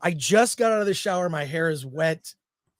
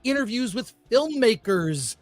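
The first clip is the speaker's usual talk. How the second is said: radio announcer. Acted. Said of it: "Why do I sound like a radio announcer or something?".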